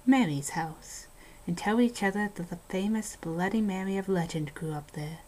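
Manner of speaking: hushed ghost-story telling, dropping to a whisper at the scary parts; spooky story narration. Acted. Host reading a haunted house story to a co-host, spooky narration. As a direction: tell it like a campfire horror tale.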